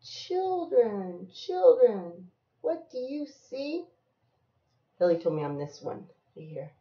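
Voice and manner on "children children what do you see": drawn-out singsong call; lilting storybook refrain; reading to a child. Acted. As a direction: stretch each call, lift the question. Reading picture book aloud to child.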